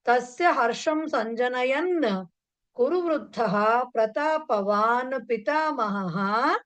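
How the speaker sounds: slow, measured Sanskrit recitation; unhurried, drawn-out phrasing; slow model recitation. Shown as a demonstration. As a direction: recite it slowly for students to follow. Teacher recites model Sanskrit sentence.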